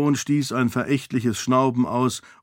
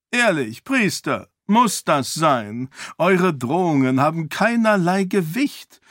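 higher, impatient king voice; dismissive king; 5 semitones higher than usual. Acted. King dismisses priest, higher impatient voice. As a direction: wave the priest off, pitched up.

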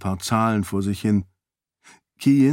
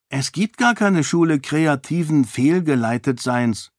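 put-on know-it-all girl; 5 semitones higher than usual. Child corrects the adults.

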